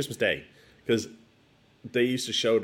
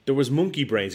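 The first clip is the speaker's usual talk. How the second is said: put-on kid's eager answer; 6 semitones higher, 6 dB louder than usual. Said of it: "And I'm like".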